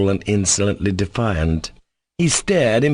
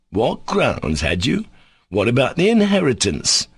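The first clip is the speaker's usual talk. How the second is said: sarcastic; 4 semitones higher than usual. Acted. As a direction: drag it out, mocking him. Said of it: "said Smerdyakov sarcastically".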